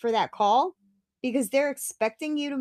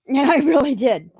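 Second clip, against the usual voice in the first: laughing; 10 dB louder than usual. Real, not acted. Laughing about praying afterward.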